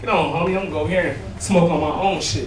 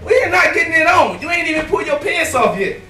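put-on scolding girl; 8 semitones higher than usual. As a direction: play the exasperated girl, way up high. Girl scolds him in the story.

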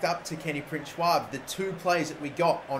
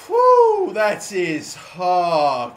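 out of breath; 7 dB louder, much slower than usual. Real, not acted. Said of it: "I'm out of breath after that".

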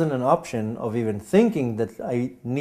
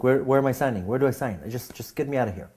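lightly comic, half-joking plea; funny way. Retold or imitated. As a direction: toss it off as a joke though it was scary. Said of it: "I'm saying it in a funny way".

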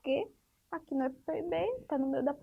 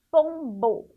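slow teaching demo; 6 dB louder than usual. Shown as a demonstration. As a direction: draw "pombo" out slowly, showing the M sound. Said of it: "que forma esse som".

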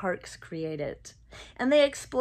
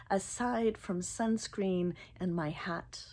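whispered; 6 dB quieter than usual. Real, not acted. Whispered aside.

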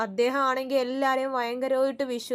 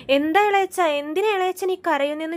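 anxious question; 5 semitones higher, 7 dB louder than usual. Retold or imitated. Niece anxiously asks crying uncle.

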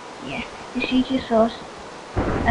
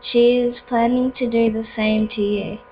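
lightly voiced game villain; slow, solemn villain commands; slower than usual. Voices map villain giving orders.

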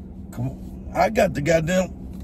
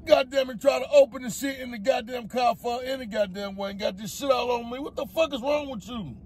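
furious cursing; faster than usual. Real, not acted. Powder exploded all over him.

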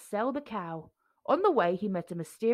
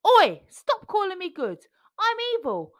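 high, loud bratty boast; hammed-up evil pea; 10 semitones higher, 5 dB louder than usual. A narrator's reading. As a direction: insist you're evil, hamming it. Jack insisting he's evil.

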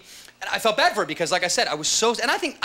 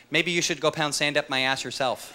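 computer comeback; 2 semitones lower than usual. Retold or imitated. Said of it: "the computer comes back at me with".

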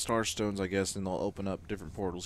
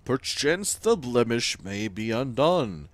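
grand, louder timeless Weaver; 6 dB louder, slower than usual. Acted. Game Weaver laments to the player, grand and louder. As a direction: speak as an ancient weaver of time.

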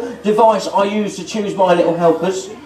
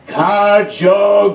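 magic word; slower than usual. Acted. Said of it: "are you ready?".

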